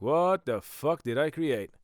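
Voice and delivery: a lightly voiced God, baffled. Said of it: "God is like".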